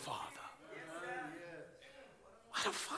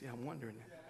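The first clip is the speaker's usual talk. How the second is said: mock congregant; 7 semitones lower, 15 dB quieter, much faster than usual. Shown as a demonstration. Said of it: "you should have went like this".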